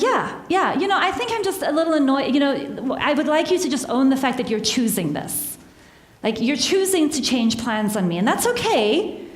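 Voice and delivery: mildly irritated retold reply; annoyed. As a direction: let the irritation leak through politely. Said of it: "You can hear in my tone of voice".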